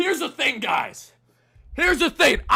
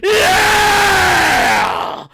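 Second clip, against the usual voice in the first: long, high victory yell; real triumphant scream; 10 semitones higher, 8 dB louder than usual. Real, not acted. Fan as the team clinches, triumphant scream.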